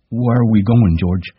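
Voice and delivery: put-on high, childlike giant voice; Lenny asking George timidly; simple Lenny. A narrator's reading. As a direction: ask like a trusting child.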